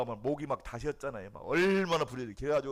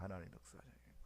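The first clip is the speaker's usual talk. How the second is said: whispered repeat; 5 semitones lower, 17 dB quieter, much faster than usual. Shown as a demonstration. Preacher repeating the truth to the congregation, in a whisper. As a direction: whisper 하나님 역사하시는 거예요 after the shout.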